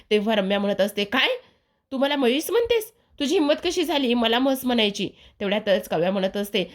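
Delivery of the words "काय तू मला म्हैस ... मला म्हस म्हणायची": higher-pitched indignant mock outrage; offended outrage. Ramya snapping at Kavya for calling her a buffalo, mildly indignant. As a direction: lightly act out a woman insulted at being called a buffalo. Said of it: "रम्या तिच्यावर चिडते".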